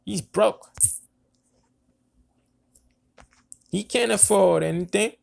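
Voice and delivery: high mocking drunk boast. Regina calling the father broke, in a high drunk voice. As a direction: sneer it in her high intoxicated voice. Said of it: "That's how she talked".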